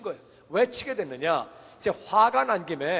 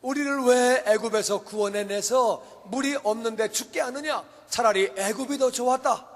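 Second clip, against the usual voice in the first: complaining; 4 semitones higher than usual. Acted. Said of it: "하나님까지 원망했어요".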